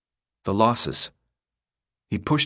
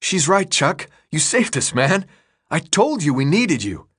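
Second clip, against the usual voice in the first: put-on raised, eager boy's voice; Thomas's voice; 6 semitones higher than usual. A narrator's reading. Thomas thanks Chuck after the escape, voiced higher and elated. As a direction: praise Chuck with near-delirious joy.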